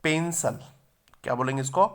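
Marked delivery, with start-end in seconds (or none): 0.0-0.6 पेंसिल said "pen-sal"; correct pronunciation. Shown as a demonstration. Teacher models the right word for students, careful pronunciation of पेंसिल. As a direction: say पेंसिल clearly as two syllables, "PEN-sal". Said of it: "इसका सही है".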